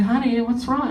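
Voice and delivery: softly mothering; concerned mother. Retold or imitated. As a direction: gently check on your child, imitated. Worried mother on the phone.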